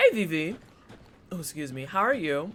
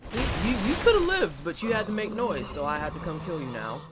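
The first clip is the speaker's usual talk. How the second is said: mock menacing taunt; 3 semitones higher than usual. Streamer taunting a slain enemy, mock menacing gloat. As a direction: play the smug killer, then settle.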